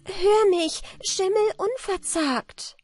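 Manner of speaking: very high, slow shout to the distance; girl shouts up the shaft to the horse; loud shout. Acted. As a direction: call far up the shaft with all your voice. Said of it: "machte ihre Stimme ganz laut und schrie".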